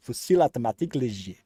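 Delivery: relaxed French accent on "Fusil automatique léger", rolled out again. Shown as a demonstration. A streamer repeating the French name for fun, French accent. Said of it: "say it in an accent".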